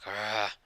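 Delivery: drawn-out groaning sigh; retold sigh. Okami, stuck being petted, gives an imitated groaning sigh. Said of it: "Okami signs like".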